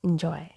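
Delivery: "enjoy" softly as in-joy; correct "enjoy". Shown as a demonstration. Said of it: "Letter E and Y have the same sound".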